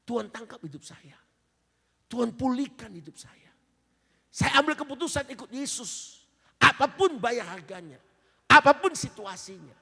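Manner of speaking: loud, high, rising testimony cry; the preacher shouting his vow to follow Jesus, loud and high; preaching at full force. Acted.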